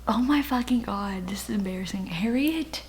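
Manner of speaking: a hushed, embarrassed aside; embarrassed whisper. Real, not acted. To herself while forgetting a character's name, an embarrassed whisper. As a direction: whisper it under your breath, caught out and embarrassed.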